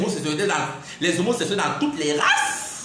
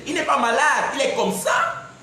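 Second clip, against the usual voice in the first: indignant shout; 7 semitones higher than usual. Real, not acted. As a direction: cry it out, fed up with the prejudice. Défend les personnes asexuelles. (il crie, indigné, pour défendre les asexuels)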